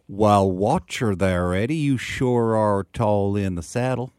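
slow, stretched Texan with British overtone; British person doing Texan. Retold or imitated. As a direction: badly imitate a Brit's Texan drawl. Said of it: "use their best British accent".

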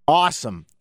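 "Awesome" said as a keen North American exclamation; hammed-up North American "Awesome". Shown as a demonstration. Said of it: "I can only do awesome as an expressive, positive word".

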